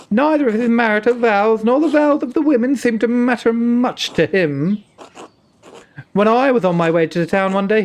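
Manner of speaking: put-on nun's tale told in a light Indian accent. Player voicing the nun Matilda in a light Indian accent. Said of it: "maybe I'll do an Indian accent".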